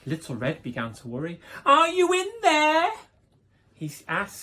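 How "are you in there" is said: high, loud call into the dark. Acted. Little Red calling into the dark room, high and loud.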